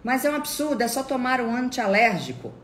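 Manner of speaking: high, loud mock outrage; loud, high-pitched nagging; indignant protest. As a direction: imitate an exasperated relative, voice shooting up. Acts out relative's indignant protest.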